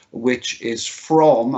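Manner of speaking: "from" drawn out slowly and leaned on; stress on from. Real, not acted. Head telling parents the return date, stressing "from". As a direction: lean on the word "from" to flag it. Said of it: "I emphasize the word from".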